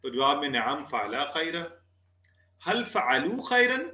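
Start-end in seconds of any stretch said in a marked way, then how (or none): 2.6-3.9 हल फ़अलू खैरन drawn out slowly and high, as a question; slow Arabic question. Shown as a demonstration. Teacher quizzing students, asking slowly and high. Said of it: "हम पढ़ रहे हैं".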